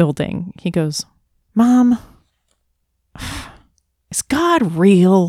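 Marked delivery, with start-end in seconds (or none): 1.5-5.3 mock-frustrated child's voice, higher and louder. A mother retells her son suddenly asking her something, mock-frustrated. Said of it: "in this really frustrated voice".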